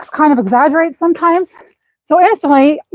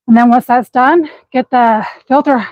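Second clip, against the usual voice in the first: breathless, gasping for air; panting between words; out of breath. Real, not acted. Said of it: "sorry, I'm out of breath".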